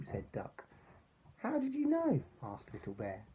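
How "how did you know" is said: high amazed question; surprised. Acted. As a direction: ask in wonder. Surprised bear asks.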